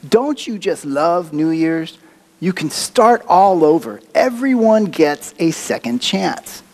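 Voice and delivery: light imitation of a New York accent; a hint of a New York woman. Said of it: "in her New York accent".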